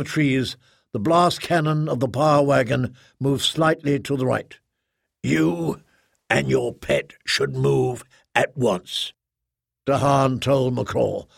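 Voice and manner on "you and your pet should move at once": cold threatening commander. Acted. Dahan threatens Nacrol.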